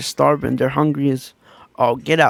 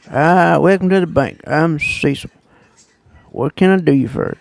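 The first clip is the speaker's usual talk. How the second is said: a hint of a folksy old banker; old banker Cecil. Imitating Cecil greeting at the bank, lightly voiced. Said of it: "literally how he talks".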